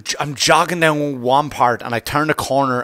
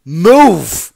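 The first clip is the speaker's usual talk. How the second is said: much higher and louder, drawn out; retold angry yell at the girls blocking the track; yelling at joggers; 9 semitones higher, 8 dB louder, much slower than usual. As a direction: bark at them to get out of the path. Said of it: "And I go".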